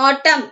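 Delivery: "autumn" ending on M, N left silent. Shown as a demonstration. Teacher showing the class how to pronounce it, silent N in "autumn". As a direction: say "autumn" as AW-tum. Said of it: "so we pronounce the word as".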